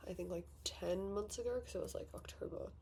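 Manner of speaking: whispered mental arithmetic; softly thinking aloud; muttered to herself. Real, not acted. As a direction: drop to a whisper while counting back. Working out the months aloud.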